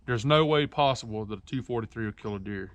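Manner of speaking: deadpan mock disbelief; sarcastic. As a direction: say it straight-faced, meaning the opposite. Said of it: "I'm being sarcastic".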